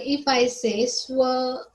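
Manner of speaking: स्व- stretched very slowly so the अ sound is heard; slow down and hold स्व- to show its vowel; drawn-out syllable. Shown as a demonstration. Teacher showing pupils the vowel hidden in स्व, drawn out. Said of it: "अ आ रहा है ना".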